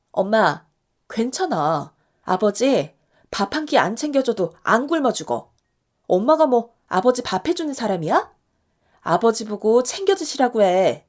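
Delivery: 조금 크게, 엄마를 다독이며 단호하게; 아버지 신경 쓰지 말라고 힘주어 말하듯. Acted. 딸이 엄마 편들며 다그침. (엄마 편드는 딸의 단호하고 힘찬 말투)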